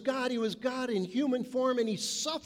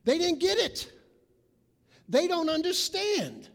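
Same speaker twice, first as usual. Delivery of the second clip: exasperated exclaim; 7 semitones higher, 4 dB louder than usual. Real, not acted. Preacher exclaims in dismay.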